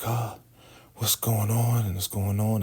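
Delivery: high-pitched bewildered waking voice; waking up confused. Retold or imitated. Joan waking up as Lacey tends her, confused. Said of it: "she's waking up".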